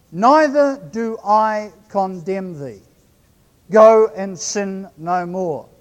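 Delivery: slow, grave words of Jesus; solemn Jesus voice. Acted.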